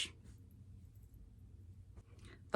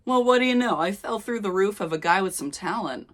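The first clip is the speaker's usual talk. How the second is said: smug teasing; 4 semitones higher, 4 dB louder than usual. Acted. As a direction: tease him, pleased with yourself. Final take of the line.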